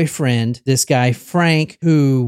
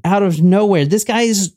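ordinary talk, nothing marked

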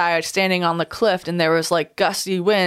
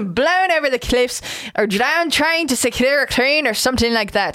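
put-on "blown over" in a Scottish accent, breaking into a laugh; 2 semitones higher than usual. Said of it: "she's falling back to Scottish".

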